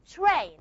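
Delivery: train with a puff of air after the t; aspirated train. Shown as a demonstration. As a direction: let air burst on the t of train. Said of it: "It's not train".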